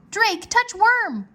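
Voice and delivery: high, slow, loud dragon call; dragon's urgent voice. A narrator's reading. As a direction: urge him like a small dragon. Worm's voice urges Drake.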